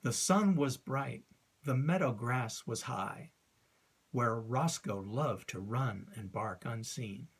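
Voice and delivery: poem recitation. Shown as a demonstration. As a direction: read the lines with a steady iambic beat. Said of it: "recite a line from ... to illustrate".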